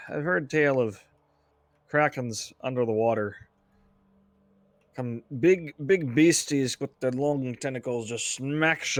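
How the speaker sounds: put-on gruff old sea-dog pirate. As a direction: spin a sailor's yarn, pirate style. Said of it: "Dane gets his pirate voice on".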